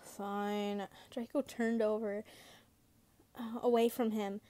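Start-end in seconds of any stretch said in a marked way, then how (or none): 0.0-0.9 low-key sulky giving in; pouting. Acted. Turning away from his mate, mildly pouting. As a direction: give in with a slight pout. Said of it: "while pouting".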